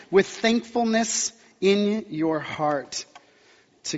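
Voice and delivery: slow, measured Bible reading; scripture reading. Acted. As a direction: read the verse slowly and deliberately. Reads scripture aloud to congregation.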